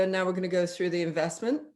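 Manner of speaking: quick, matter-of-fact "investment"; fast, neutral money announcement; brisk neutral phrasing. Retold or imitated. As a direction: rattle it off plainly. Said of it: "some people will say".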